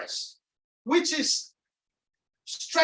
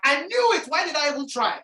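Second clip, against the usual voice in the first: mock self-reproach; 3 semitones higher, 4 dB louder than usual. Coach voicing someone who has fallen, exasperated self-reproach. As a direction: act out kicking yourself for trying. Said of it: "When you fall and you say".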